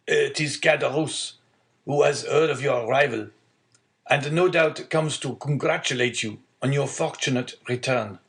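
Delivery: a hint of an old man announcing news; old father. Old father telling son of visitor, lightly voiced.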